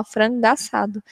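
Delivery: slow "frango assado" run together as one sound, the o of "frango" merged into "assado"; slow linked demo of "frango assado". Shown as a demonstration. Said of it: "eu vou pronunciar um som só".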